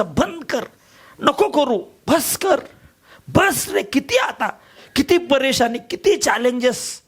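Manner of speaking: inner voice pleading. Retold or imitated. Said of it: "माझ्या आतून खूप आवाज यायचा".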